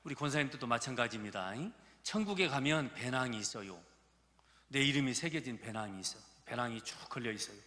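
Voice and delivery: ordinary delivery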